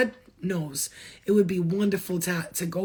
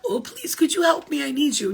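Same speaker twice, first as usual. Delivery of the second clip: much higher, hammed-up begging whine; mock needy pleading; 5 semitones higher than usual. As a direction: parody someone clinging for help.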